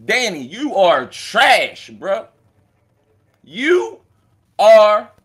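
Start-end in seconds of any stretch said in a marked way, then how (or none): 3.4-5.1 a drawn-out, lightly put-on rapper's delivery of the word; a rapper's voice. Roasting Danny in a rapper's voice, lightly done. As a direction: stretch Trinidad like the rapper would. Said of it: "in my best J Murder voice".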